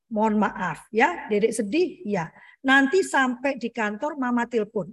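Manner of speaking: put-on slow, patient explaining to a small child; gentle parental apology. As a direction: draw it out tenderly, reassuring. Mother apologising to child before leaving.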